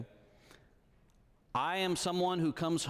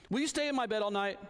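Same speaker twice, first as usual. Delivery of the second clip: put-on higher small-girl voice, scared; a child confessing fear at bedtime; little daughter; 7 semitones higher, faster than usual.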